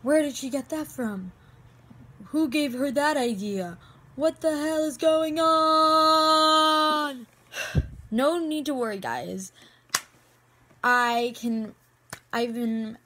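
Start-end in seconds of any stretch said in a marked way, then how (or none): 0.0-7.3 mock disbelief, last word dragged out long and loud; imagined viewers' bafflement. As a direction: build to a drawn-out, exasperated wail. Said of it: "you guys are wondering".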